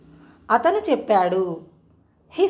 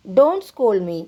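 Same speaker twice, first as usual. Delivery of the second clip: Don't scold me said slowly, word by word; slow teaching repeat; 4 dB louder, much slower than usual. Shown as a demonstration. Teacher slowly repeating "Don't scold me" for Telugu students. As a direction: spell it out slowly for the learners. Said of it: "నన్ను తిట్టకు అనాలంటే ఇంగ్లీష్లో".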